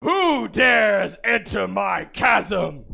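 slow, drawn-out booming dragon. Acted. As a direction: let each word roll like a dragon. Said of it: "let me try that again".

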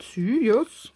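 lightly put-on posh lady praising; a touch of a posh voice saying well done; mock-posh praise, partly whispered. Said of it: "There's a very posh voice".

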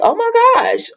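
high, exasperated yelp; real exasperated outburst; exasperated shout. Real, not acted. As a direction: cry out in disbelief. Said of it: "I'm just like".

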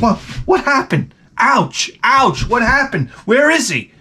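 high confused yelp; baffled, looking around for it. Acted. Confused mosquito victim.

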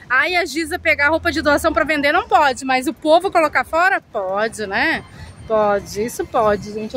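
mocking the critics with bitter irony; sarcastic mockery. Real, not acted. Mocking critics, then indignant.

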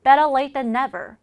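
slow, clear teacher's model line; slow model reading. Shown as a demonstration. Teacher slowly modelling the phrase for learners. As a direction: read it out slowly for students to copy. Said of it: "자, 뭐라 그랬을까요?".

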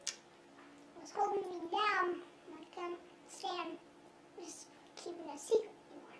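altered anonymous voice; disguised deep voice. Acted. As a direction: voice disguised to hide identity. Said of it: "your voice has been altered".

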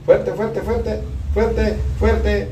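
"fuerte" called high and loud, pushing; urging loud. Real, not acted. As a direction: coach a hard push, loud and high. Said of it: "coaching patient to push hard". ("fuerte" gritando, alentando fuerte)

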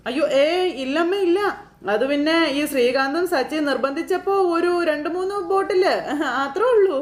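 flustered excuse. Retold or imitated. Sudhi making excuses to his mother, flustered. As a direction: squirm out of it.

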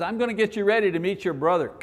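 lightly voiced God, teasing. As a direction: toss it off like a wry joke. Voicing God playfully, teasing.

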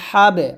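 হাবে with a bounced echo on ব; qalqala. Shown as a demonstration. Teacher answering own question, হাবে with qalqala bounce. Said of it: "কলকলা".

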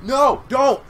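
high, loud mock cry; hammed-up shouted plea; Chuck. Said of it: "Why would Chuck say".

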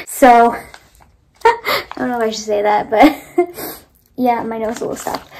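laughing. Real, not acted. Embarrassed about having cried.

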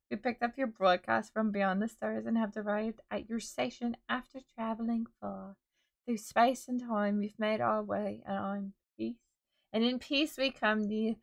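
put-on light British accent reading a grand space message; mock British accent. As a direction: read it like a British sci-fi announcer. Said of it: "got, like, a British accent halfway through reading that".

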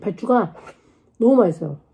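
speaking between bites; talking while chewing. Real, not acted. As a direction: mouth partly full. Seen 0: Hand covers mouth, lips pressed, fingers licked; cabbage leaf held.

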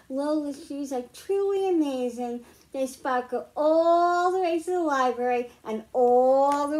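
lively picture-book read-aloud; reading to children. Acted. Teacher reads a picture book to the class, storytime voice. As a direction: read it like storytime for little ones.

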